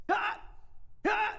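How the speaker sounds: sudden high, loud barked shout "Ah!"; imitated yelling. Preacher imitating the neighbor pacing and yelling commands outside, loud barked shout. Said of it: "this is what it sounded like".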